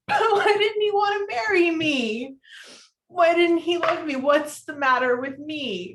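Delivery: sobbing questions, voice breaking up; crying. Real, not acted. Sally sobbing to Harry about her ex. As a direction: cry it out between laughs and tears.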